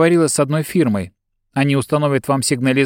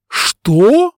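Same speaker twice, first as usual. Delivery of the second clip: high, loud outraged yell; yelled what; 10 semitones higher, 6 dB louder than usual. A narrator's reading. Client yells at his bodyguard, high outraged yell. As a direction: shriek it in shock. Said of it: "завопил Бурсов".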